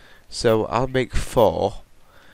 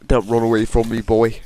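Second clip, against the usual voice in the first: mock call to spider; 5 dB louder than usual. Addresses spider in game.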